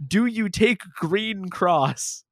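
put-on a lightly done Irish accent, slowly. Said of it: "he says in an Irish accent".

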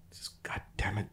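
under-the-breath whispered curse; annoyed whisper. Retold or imitated. Annoyed man hissing.

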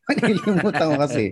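said through a laugh; laughing while repeating it. Real, not acted.

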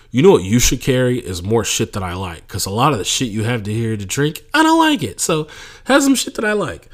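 imitating a talent telling an owner what to stock; mock demanding talent. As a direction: whine like a spoiled performer. Hypothetical talent making demands.

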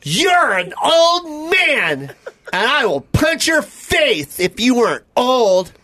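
slow, laughing high taunt. Acted. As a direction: taunt him through laughter. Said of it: "I'm gonna play you".

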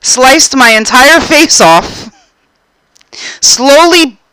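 slow, mock-dramatic accusation; hammed-up, drawn-out grievance; retold aggrieved account. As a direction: spell out each grisly step deliberately. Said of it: "And I said".

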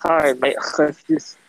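put-on British accent. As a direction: play the Brit, lightly. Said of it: "You can do your British voice".

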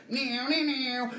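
high, whining "meow" sound effect; imitated whizzing meow. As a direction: mimic action-scene whizzing noises. Imitating movie's action noises.

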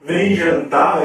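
imitating a dinner call. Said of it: "é isso aí que você quer falar?".

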